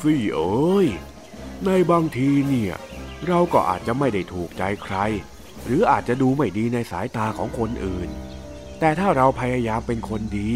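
low, tender reassurance; comforting father. Acted. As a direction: console your daughter gently. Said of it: "เดินเข้ามาปลอบใจซูซี่".

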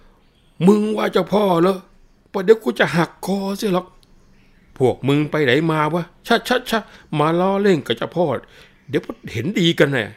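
hammed-up possessed man menacing the police; fake possessed spirit. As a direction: roar threats as the spirit lord. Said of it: "ทำเป็นเต้นใหญ่เลย".

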